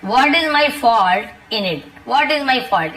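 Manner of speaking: each word said slowly and clearly for learners; slow model sentence. Shown as a demonstration. Teacher slowly models the sentence for Hindi learners. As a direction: spell it out slowly so students can copy. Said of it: "teacher models the sentence slowly".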